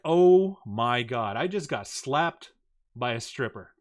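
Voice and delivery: slow, drawn-out acted shock; mock-dazed realisation; stunned disbelief. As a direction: stretch each word as it sinks in. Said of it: "And I'm like".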